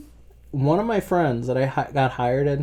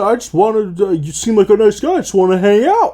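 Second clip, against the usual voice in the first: higher, louder, eager caller; imitating Tim; 6 semitones higher, 5 dB louder than usual. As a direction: plead to hang out, a bit too keen. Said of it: "He said".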